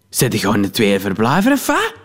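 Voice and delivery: mock her as she pries; nosy woman. Snobbish woman prods about his second home, jeering. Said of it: "vroeg ze iets te luid".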